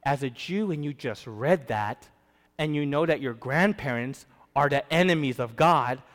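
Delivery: ordinary talk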